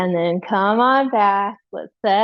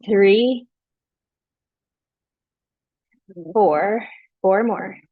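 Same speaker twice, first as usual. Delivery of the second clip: wobbly counting under strain; balancing on one leg; 2 semitones lower, much slower than usual. Real, not acted. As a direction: count while keeping your balance. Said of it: "Oh, I'm losing my balance".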